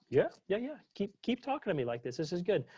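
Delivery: quick high eager yeses from an imitated kid. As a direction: play the delighted kid. Kid thrilled at being treated grown-up.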